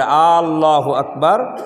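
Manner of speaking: "আল্লাহু আকবার" slow, with the alif of "আল্লাহু" stretched long; drawn-out alif. Shown as a demonstration. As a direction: drag the alif of "আল্লাহু" as the wrong takbir. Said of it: "আলিফ টানিয়ে যদি উচ্চারণ করে".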